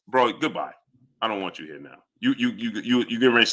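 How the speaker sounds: low, soft brush-off; quiet dismissal. Real, not acted. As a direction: send the viewer away, done arguing. Dismissing the annoying viewer.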